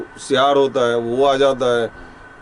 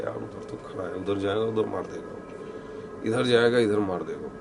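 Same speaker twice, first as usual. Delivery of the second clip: fearful whisper; 4 semitones lower, 9 dB quieter than usual. Retold or imitated. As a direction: whisper so the thing can't hear you. Boy fearing something in the dark.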